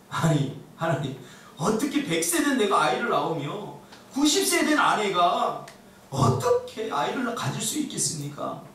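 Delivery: lightly acted incredulous protest; mock-incredulous complaint, rising in energy; inward scoffing. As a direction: question it in mild disbelief, stretching the doubt. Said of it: "속으로는 지금 비웃고 있는 거예요".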